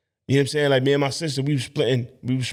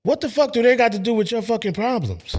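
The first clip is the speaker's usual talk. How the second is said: angry outburst; 9 semitones higher than usual. Real, not acted. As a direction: vent at the clip. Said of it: "reacting angrily to the clip".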